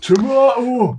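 high, loud, grand "tomato" with a broad ah; proud British tomato. Shown as a demonstration. Asked about tomato, proclaiming the British "tomato" loudly. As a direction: trumpet "tomato" the posh British way. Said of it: "The queen would be proud".

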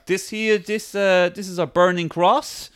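mock friendly house tour; weirdly nice welcome. Extremists showing Louis round their home, weirdly nice. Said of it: "like, weirdly like".

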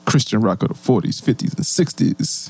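lightly crooned radio DJ; slow late-night radio host, a hint; late night love voice. Pretend. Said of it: "hit him with my radio voice, my late night love voice".

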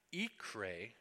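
ikre, slow and careful, Hebrew; Hebrew word. Shown as a demonstration. Preacher teaching the Hebrew word ikre. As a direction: spell out ikre syllable by syllable. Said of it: "is the Hebrew word".

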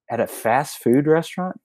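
mock shock at a crazy idea; incredulous. Retelling disbelief at new slogan.

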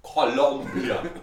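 Colombia drawn out slowly in a put-on Colombian accent; Colombian pronunciation. Shown as a demonstration. Showing a mate how Colombians say it, Colombian accent. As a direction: stretch "Colombia" out, mock-Colombian. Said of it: "You have to say it like that".

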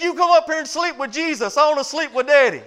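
put-on high, loud boy's voice; little boy's reply. Boy calls down to his mama, high and loud. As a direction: deliver the punchline as the stubborn kid. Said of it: "He said".

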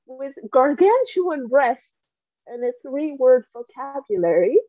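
dry deadpan reading voice; reading aloud. Acted. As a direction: read the passage straight, deadpan. Reads book passage aloud.

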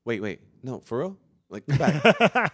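desperate plea. Retold or imitated. Retold plea to an ex.

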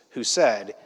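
slow, low, nearly whispered; hushed reveal. A narrator's reading. Preacher reading the angels' news, hushed. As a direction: drop to a slow hush, word by word.

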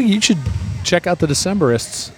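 ordinary talk, nothing marked

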